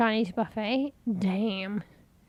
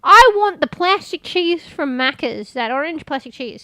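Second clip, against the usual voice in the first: mock demanding craving; 3 semitones higher, 9 dB louder than usual. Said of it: "but I was like".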